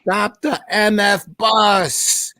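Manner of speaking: high, slow, loud yell to halt the bus; retold scream. Teammate yelling at the driver, high hammed-up scream. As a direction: bellow it like a panicked pitcher. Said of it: "Catfish Hunter starts screaming".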